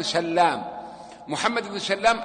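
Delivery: سلام said sallām, with double l; سلام as "sal-LAAM"; doubled lam. Shown as a demonstration. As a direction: hold the l in each سلام. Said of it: "بالتشديد".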